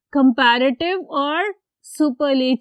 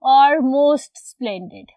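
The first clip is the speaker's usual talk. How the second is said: slow dictation; 3 dB louder, much slower than usual. Shown as a demonstration. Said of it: "more splendid".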